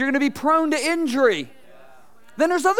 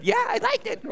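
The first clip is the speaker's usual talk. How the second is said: high-pitched mock people-pleaser; feigned approval; 12 semitones higher, 3 dB quieter than usual. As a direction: put on a high, fake voice of approval. Voicing people pretending they liked it.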